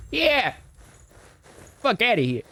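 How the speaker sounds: high cheering whoop; gloating cheer at the departing man; triumphant cheer. Real, not acted. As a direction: crow at the leaving figure. Cheering as the figure leaves.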